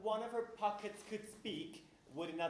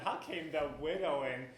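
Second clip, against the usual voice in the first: jeering through laughter; laughing mockery; 5 semitones lower than usual. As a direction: laugh while mocking the phrase. Jeering at Gonzalo.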